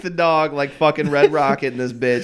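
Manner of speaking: loud laughing hype, hamming it up; frat bro. Real, not acted. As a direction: push it like a hyped-up bro. Hammed-up hot dog grilling rant.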